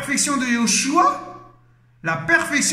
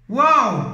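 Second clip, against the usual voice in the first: awed gasp; 4 dB louder than usual. Real, not acted. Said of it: "je tremble encore là".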